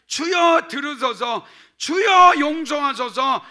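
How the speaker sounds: each Lord shouted high and loud; triple cry of Lord. Shown as a demonstration. Pastor demonstrates the threefold cry of Lord, shouting. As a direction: cry out three times to God. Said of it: "이게 주여 삼창이에요".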